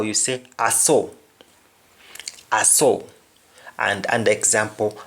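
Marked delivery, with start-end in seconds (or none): 0.6-3.0 "I saw" said as "ah so"; "I saw" with an open "ah", then "so"; Jamaican pronunciation. Shown as a demonstration. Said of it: "In Jamaican, if you want to say".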